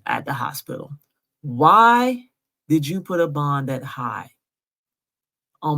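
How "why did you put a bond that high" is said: outraged. Real, not acted. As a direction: cry out the why. Outraged question at the city.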